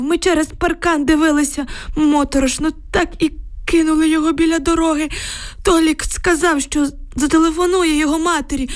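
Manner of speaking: put-on high, anxious old villager's voice; frightened old man. A narrator's reading. Old neighbour telling girls about the tanks, anxious. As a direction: tell it like a shaken old grandad.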